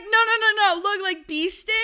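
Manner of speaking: high, loud flustered protest; panicked denial. Retold or imitated. The caught couple protesting it was a bee sting. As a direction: protest in a frantic squeak. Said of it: "they're like".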